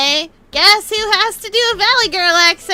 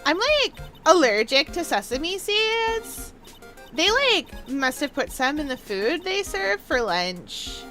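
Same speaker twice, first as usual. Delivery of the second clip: put-on Valley Girl accent. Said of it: "do a Valley Girl accent".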